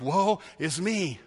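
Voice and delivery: a soft, slow, hammed-up sigh of woe; mock lament. Preacher playing the congregation, soft mock lament. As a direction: moan it like a doomed sinner, slow and soft. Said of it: "And we're like".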